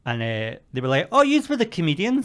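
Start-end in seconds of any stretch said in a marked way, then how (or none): 1.1-2.2 high-pitched mock girl voice; mimicked girls. Girls recognising the comedians outside, mocking high voice.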